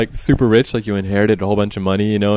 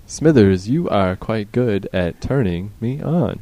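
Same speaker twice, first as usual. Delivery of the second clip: old cartoon boss; much slower than usual. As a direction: purr it out slowly like a scheming old tycoon. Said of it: "it's like in The Simpsons".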